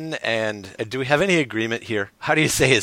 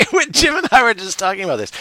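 laughing; 13 semitones higher, 10 dB louder than usual. Real, not acted. Laughing after a joke.

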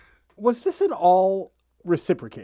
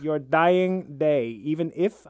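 creepy lover; 3 semitones lower, slower than usual. Acted. Mock Carl creepy vow.

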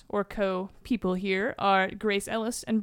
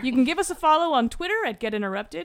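podcast sign-off; 2 semitones higher than usual. Real, not acted. Reads the show's sign-off.

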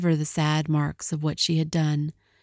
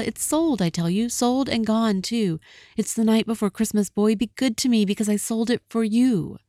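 much higher, earnest plea; high pleading; 5 semitones higher than usual. Acted. Della begging Jim to be good to her, pleading high. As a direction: beg him to be kind.

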